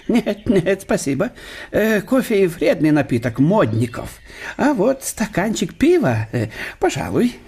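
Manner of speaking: лёгкий голос весёлого гостя; говорить бодро и со смешком; добродушный немецкий профессор. Acted. Штелин отказывается от кофе. (гость бодро утешает больного хозяина)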